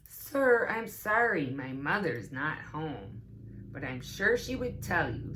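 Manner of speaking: put-on a polite child fibbing on the phone; Trix answering phone.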